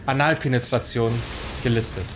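mock news announcer. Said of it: "in Verkäuferstimme und Werbestimme kommentieren".

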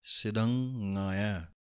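ਸਿਧੰਗਾਇਆ as sidh-ngaa-iaa, slow; sidhangaaiaa slowly. Shown as a demonstration. Teacher answering how to say ਸਿਧੰਗਾਇਆ. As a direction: say ਸਿਧੰਗਾਇਆ with a held ng. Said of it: "ਇਹਦਾ ਉਚਾਰਨ ਹੈ".

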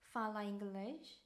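very slow "Fala inglês?" with a rising end; slow demo question. Shown as a demonstration. Teacher modelling a question for travellers, very slow. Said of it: "이렇게 물어보시면 됩니다".

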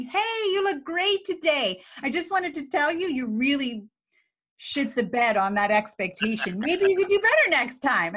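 high, bright sugary feedback hiding criticism; sweetly coat harsh criticism with false cheer; fake cheerful feedback. Shown as a demonstration. Manager giving fake cheerful feedback to an employee. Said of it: "shift my mood to being happy and going".

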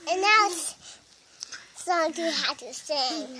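loud sing-song announcement; announcing. Real, not acted. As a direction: call it out like a show host.

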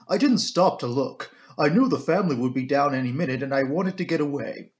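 account for yourself firmly as the housekeeper; composed housekeeper. Acted. Housekeeper explaining to the inspector why she left, composed. Voices Miss Russell, the housekeeper.

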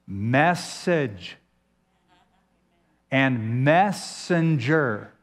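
MESS leaned on in Message and messenger; stress on MESS. Shown as a demonstration. Preacher shows congregation the mess inside Message and messenger, stressing MESS. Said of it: "Every time you hear the word mess".

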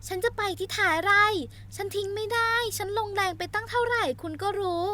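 high, sharp scolding heroine; angry outburst. Acted. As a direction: snap back at him to let her go. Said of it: "โซล่าตวาดลั่น".

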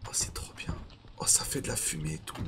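whispering. Real, not acted. Marvels at campfire quietly.

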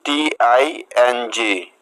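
টিআইএনজি ধীরে অক্ষর ধরে; টেনে টেনে বানান বলুন; slow spelled letters. Shown as a demonstration. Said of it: "next". (ধীরে বানান)

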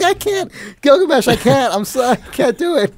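high, anguished mock plea. Player begging his doomed enemy, hammed-up anguish. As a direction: plead with him, hammed-up and torn. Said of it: "And I'm just like".

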